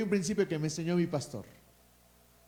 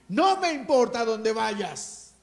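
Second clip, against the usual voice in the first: preached vow; 4 semitones higher, 5 dB louder, slower than usual. Acted. Eliseo's vow, preached climax.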